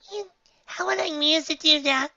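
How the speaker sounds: loud high determined filly. Acted. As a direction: resolve to get it back. Dinky voice.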